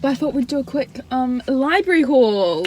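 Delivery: put-on half-joking British accent; fake British accent. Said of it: "my fake British accent".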